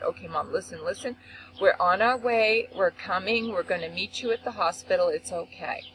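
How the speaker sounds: retold reassurance. Calming her frantic crying mother.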